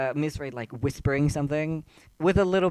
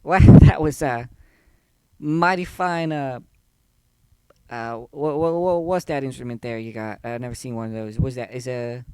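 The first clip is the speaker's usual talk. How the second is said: lightly drawled Southern barmaid, teasing; sweet-talking the band like a saloon hostess; folksy barmaid Jenny; 4 dB louder than usual. Acted.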